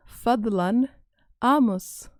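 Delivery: firm request. Shown as a demonstration. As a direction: say Fadlan amus firmly. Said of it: "come off as rude, depending on how you say it".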